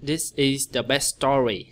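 phrasing demo. Shown as a demonstration. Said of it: "nghĩ chỗ nào".

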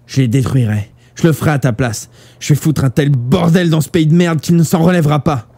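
building to high, fierce outburst; furious vow. A narrator's reading. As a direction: swear revenge, rising in pitch as you go. Vow of revenge to dying friend.

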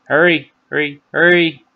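rising, urgent repetition; urgent self-urging. Real, not acted. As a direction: hurry yourself along. Urging himself to swallow.

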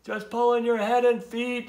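high, loud storybook yell. A narrator's reading. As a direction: holler instructions up from below. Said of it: "yelled the turtles".

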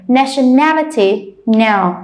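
"Nationality" slowly with third syllable stressed, then "no" alone; natio-NA-lity, then echo "no" by itself. Shown as a demonstration. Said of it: "see where's the stretch".

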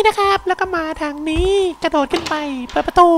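very high falsetto, singsong guiding; put-on cutesy voice. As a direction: squeak it out in a fake high voice. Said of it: "แล้วผมจะแอปเสียงทำมะเขืออะไร". (แอ๊บเสียงเล็กแหลมสูง)

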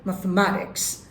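American accent, t turned to a quick tap; American pronunciation. Shown as a demonstration. Teacher shows the American way of the word, American accent. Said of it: "আমেরিকার ওয়েতে".

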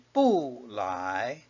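"不" falls, then "来" rises; fourth-tone bu. Shown as a demonstration. Teacher showing bu before a second tone, "不" falling. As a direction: drop sharply on "不", climb on "来". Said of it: "is pronounced as a fourth tone".

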